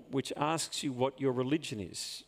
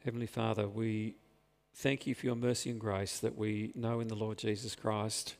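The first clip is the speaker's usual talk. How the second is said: prayer. Real, not acted. Leads closing prayer.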